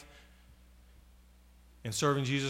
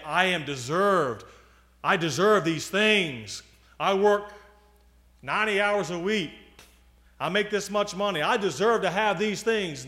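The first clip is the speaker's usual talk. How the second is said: louder, higher, indignant mock complaint; entitled protest; 4 semitones higher, 5 dB louder than usual. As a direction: act out someone insisting on their rights.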